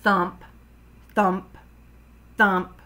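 loud, evenly spaced thumps; thudding sound words. A narrator's reading. Froggy throws the ball against the wall, thudding. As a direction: punch each word like a ball hitting.

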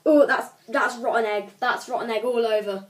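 talking while chewing; mouth full. Real, not acted. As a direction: say it round a jelly bean. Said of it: "Put it back in your mouth".

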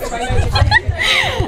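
squealing high laugh. Real, not acted. Laughing at own joke.

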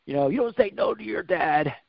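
retold angry growl and scolding; angry dad. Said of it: "I got so angry".

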